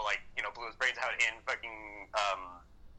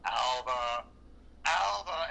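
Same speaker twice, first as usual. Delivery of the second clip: mock calling out; much slower than usual. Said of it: "calling out for Alba".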